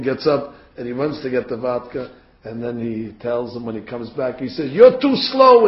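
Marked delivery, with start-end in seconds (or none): 4.7-5.7 loud, higher-pitched rebuke; sudden irritated outburst; angry scolding. Retold or imitated. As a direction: berate a slow servant, voice raised. General scolds Napoleon, punches him.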